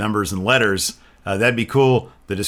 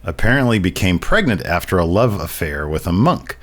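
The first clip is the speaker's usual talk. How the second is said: haunting voice. Acted. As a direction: read it like a grim ghost tale. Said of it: "like, a very haunting voice".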